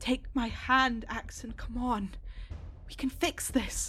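soft, hushed whisper with an echo. Narrating a cave scene, the speaker voices Dexter coaxing a sobbing Axen: whispering, echoing voice. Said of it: "this little kind of whispering, echoing voice".

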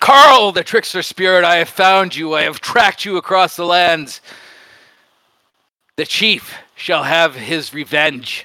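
furious, enraged, raging yell. A player voices his raging character grabbing a foe in the game: Stormbearer's raging yell. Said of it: "And he screams, he yells".

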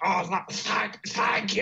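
put-on garbled, creaky, stumbling swollen-tongue mumble. Retelling thanking a nurse from a hospital bed: imitating talking with swollen tongue. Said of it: "I say with a big, like, swollen tongue".

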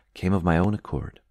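ordinary delivery, nothing marked

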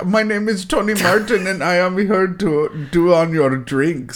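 high-pitched fake German accent. Doing an impression of a German guy: German guy accent impression. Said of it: "my impression of a German guy".

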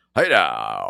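announcer voice with now drawn out. Showing the others how the Super Bowl announcer talks: Alan Roach voice. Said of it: "he talks like this".

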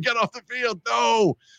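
play-acted, high-pitched shouted scream. Retelling a reaction at a football game: imitating own screaming. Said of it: "I was like".

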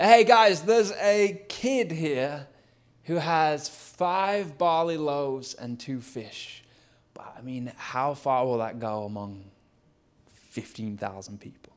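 halting, uneasy, awkward, hesitant delivery. Retelling the moment Andrew busts into the scene, as put-on awkward Andrew. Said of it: "you could almost hear the awkwardness in Andrew's voice".

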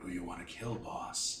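very quiet, low, ghostly, hushed voice. Narrating an encounter, speaking as the Nephrak in a low, ghostly Nephrak voice. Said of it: "he says in a low, or she says in a low, ghostly tone".

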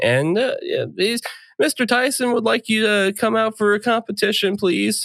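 put-on nervous voice. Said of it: "He's just a little bit more nervous".

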